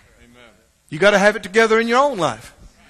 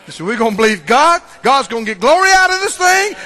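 raised, higher voice of rising faith; retold shouting; 4 semitones higher, 8 dB louder than usual. Preacher retelling an encouraging phone call, exultant shouting. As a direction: re-enact shouting in victory. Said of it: "we're shouting".

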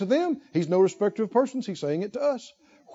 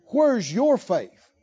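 slow searching question; much slower than usual. Acted. Jesus asking the disciples.

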